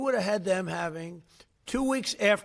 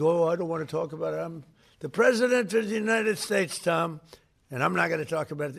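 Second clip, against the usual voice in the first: pompous, fast mock refusal; mock aloof president. Mocking an aloof president to the press, haughty and fast. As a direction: lampoon a haughty president, rattling it off. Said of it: "I'm not, I'm gonna be so big".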